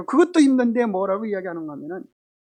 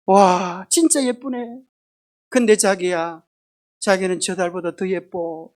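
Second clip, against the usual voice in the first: sweet Seoul husband; 3 semitones lower, slower than usual. Shown as a demonstration. Preacher playing a Seoul husband sweetly praising his wife. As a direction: coo it to her gently. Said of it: "서울 남자 어떻게 한다 그래요?".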